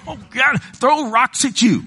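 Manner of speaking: high excited yelp; young Billy answering the kids' taunts, high and excited; boyish outburst. Retold or imitated. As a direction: blurt it like an angry little boy. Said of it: "I'm going".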